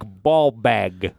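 slow, lightly put-on Jersey accent. Host explains the accent while doing it, slow Jersey accent. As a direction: stretch the phrase out in Jersey. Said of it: "That's your Jersey accent".

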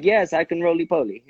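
lightly imitated Portuguese accent, a bit like Borat; hint of a Borat-like Portuguese accent. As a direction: put on a mild Portuguese accent. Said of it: "his Portuguese accent".

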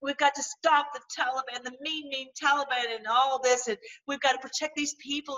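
mild mock sob-story voice; mocking imitation. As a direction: lightly mimic a weepy pundit. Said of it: "He's saying".

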